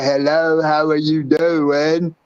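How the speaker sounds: put-on voice. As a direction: lightly put on a different voice. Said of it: "would y'all like it better if I talk like this".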